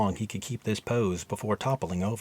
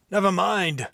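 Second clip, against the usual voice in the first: abrupt dismissal; 8 semitones higher, 5 dB louder than usual. Acted. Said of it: "all emotion gone".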